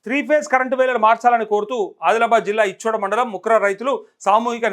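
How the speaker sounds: measured news-bulletin read. Acted. Anchor reads farmers' power protest to viewers, news read.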